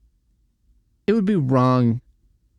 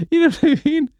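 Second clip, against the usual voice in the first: much higher, louder squeal of disbelief; squeaky incredulous; 4 dB louder, faster than usual. Real, not acted. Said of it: "laughing incredulous aside".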